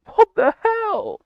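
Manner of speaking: very high, slow squeal through laughter; laughing squeal. Real, not acted. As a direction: squeal it while losing it. Cracking up at the ban.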